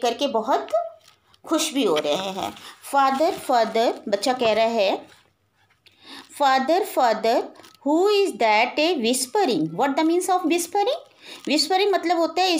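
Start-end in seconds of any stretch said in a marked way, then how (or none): 2.9-3.9 slow poem recitation. Acted. Teacher reading the poem line to her class, slow and measured. 6.4-9.7 slow poem recitation. Acted. Teacher reading the poem line to her class, slow and measured.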